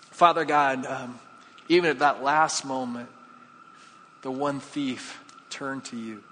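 real prayer, measured with long pauses; closing prayer. Real, not acted. Pastor thanks God for communion and the thief's welcome, praying.

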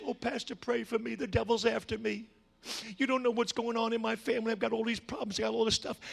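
soft, mock-needy pleading; complaining Christians. Church member asking the pastor for prayer, mock-complaining. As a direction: run through the troubles in a small, hushed voice. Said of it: "usually Christians are saying".

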